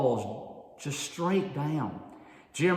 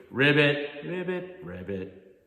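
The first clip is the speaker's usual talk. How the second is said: frog croak; slower than usual. Shown as a demonstration. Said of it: "make the sound of a frog".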